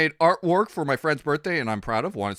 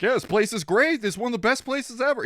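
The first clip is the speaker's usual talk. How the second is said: higher-pitched gushing praise; put-on enthusiasm, pitched up; mock gushing; 9 semitones higher, faster than usual. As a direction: imitate someone overselling a place. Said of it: "he really was like".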